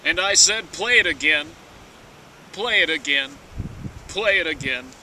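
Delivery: hammy stage actor. Acted. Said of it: "a dramatic reading of".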